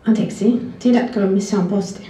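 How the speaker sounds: carefully recited Finnish question; practiced phrasebook Finnish accent. Retold or imitated. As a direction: say it in a learner's proud Finnish accent. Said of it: "which was a perfect Finnish a-, accent".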